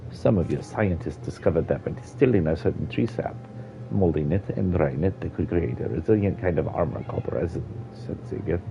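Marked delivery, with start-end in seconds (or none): 0.1-7.6 old Argonian voiced with a Jamaican lilt; light Jamaican accent for the elder. Old Argonian explaining the lost forest to a child, Jamaican accent. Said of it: "giving him a Jamaican accent".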